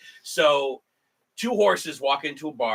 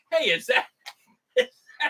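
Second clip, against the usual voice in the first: much higher, breathless excitement; starstruck fan; 11 semitones higher, faster than usual. Retold or imitated. Fan spotting a celebrity, high excited squeal. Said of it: "and going".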